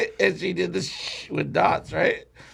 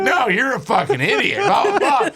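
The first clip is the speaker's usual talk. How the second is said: retold insult; 8 semitones higher, 4 dB louder than usual. Acted quarrel over the tattoo.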